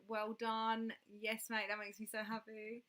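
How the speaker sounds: ordinary delivery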